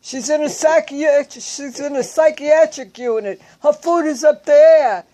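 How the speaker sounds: lightly voiced patient soothing the angry husband; patient telling the husband to calm down, high and loud; the other patient calming him. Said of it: "And he said".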